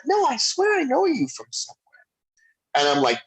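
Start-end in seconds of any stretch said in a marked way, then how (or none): 0.0-2.0 imitating an insistent star in a very high voice; high-pitched insistence. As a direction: insist in a raised, put-on voice. Acts out Mike Myers insisting.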